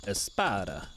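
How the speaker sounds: put-on a quick, spontaneous Italian accent on one word. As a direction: toss it out in a playful Italian accent. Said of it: "I said that with the Italian accent".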